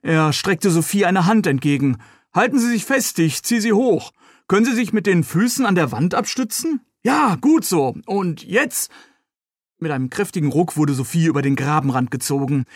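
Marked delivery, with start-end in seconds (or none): 2.3-8.9 higher, encouraging helper talking her up the wall; lightly voiced rescuer. Young rescuer pulls Sophie out of the ditch, encouraging her. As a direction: coax her up the slope, a bit higher.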